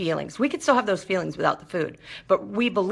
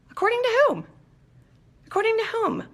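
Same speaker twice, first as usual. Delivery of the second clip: much higher, mock-astonished challenge; incredulous challenge; faster than usual. Real, not acted. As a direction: toss it back, openly disbelieving. Challenging the addiction's claim.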